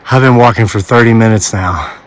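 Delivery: out of breath from the steep climb; winded, gasping between phrases; breathless at high altitude. Real, not acted. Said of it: "I can hardly breathe".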